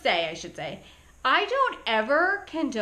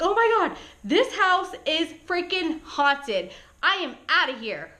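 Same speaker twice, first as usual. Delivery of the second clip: retold scared outburst; 4 semitones higher than usual. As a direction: act out mild panic, determined to flee. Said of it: "I was so, so scared".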